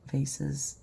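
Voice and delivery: "vases" pronounced VAY-siz. Shown as a demonstration. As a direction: say "vases" to rhyme with "faces". Trying rival pronunciations of vases.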